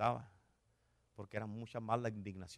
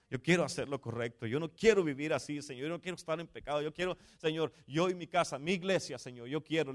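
re-enacted plea to God, raised and insistent; fervent prayer; 5 semitones higher, 5 dB louder than usual. Pastor retells pledging his house to the Lord, fervent prayer. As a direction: build urgency with each repeated declaration.

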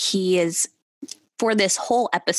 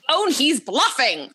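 laughing; 8 semitones higher, slower than usual. Real, not acted. Laughing at a bluff.

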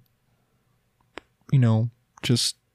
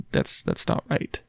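whispered; 12 semitones lower, 6 dB quieter, slower than usual. Retold or imitated. Inner voice after a whack.

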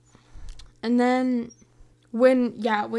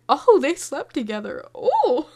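louder, rising gasp of surprise; mock shock; 3 semitones higher, 6 dB louder than usual. Realising they slept together, a louder scandalised gasp. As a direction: act scandalised. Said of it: "I was like".

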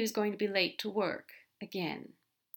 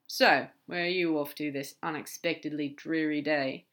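casual demon, a shade lower; lightly voiced demon; 3 semitones lower, 3 dB louder than usual. Crowley asking where Aziraphale is off to, lightly in character. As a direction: lightly play a breezy demon asking after a friend.

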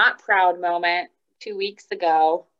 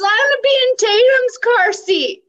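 much higher, louder imitation of a small girl; mock toddler voice; 7 dB louder than usual. Mom imitating her daughter's demand, high and amused. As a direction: squeak it like a toddler. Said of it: "she goes".

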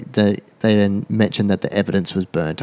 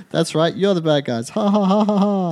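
villain laugh; 9 semitones higher than usual. Retold or imitated.

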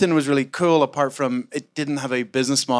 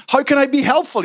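very high, louder, sugary sarcastic sing-song; mock helpful investor; 13 semitones higher, 5 dB louder than usual. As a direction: send up a fake-friendly tweet with sarcasm. Mocking investors' tweets.

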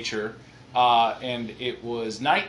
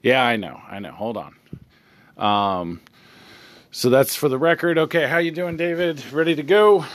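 officious cop reading the interview details into the recording, louder; police officer; 6 dB louder than usual. Acted. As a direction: play the cop stating it all for the record. Officer continues.

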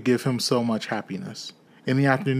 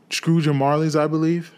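higher, louder questioning voice; lightly voiced gentleman making a polite inquiry; raised pitch, tentative formal question; portly gentleman; 5 semitones higher, 4 dB louder than usual. A narrator's reading.

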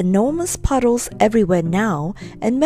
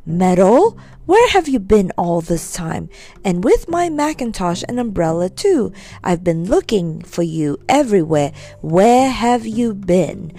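cross scolding aunt. Acted. Aunt scolding Metal for taking her things, cross. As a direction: scold him like a fed-up aunt.

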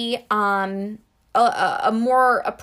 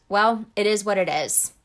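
resigned shrug. Shown as a demonstration. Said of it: "with that quote".

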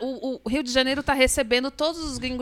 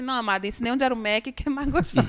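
fast cheeky reply; 5 dB quieter than usual. Retold or imitated. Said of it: "falou assim".

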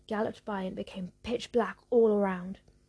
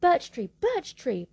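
loud, slow, higher roar of a witch; 5 semitones higher, 6 dB louder, slower than usual. Acted. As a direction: bellow the name at the tree. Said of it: "Baba Yaga roared".

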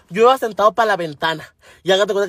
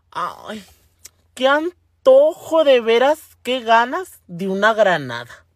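slow, drawn-out mock craving; sigh, then stretch the longing out; longing twin; much slower than usual. One twin craving a pomegranate on seeing the ad, longing.

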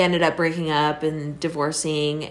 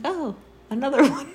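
high, laughing "another one"; mock weary sigh; 8 semitones higher than usual. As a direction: roll your eyes at the news. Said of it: "I'm like".

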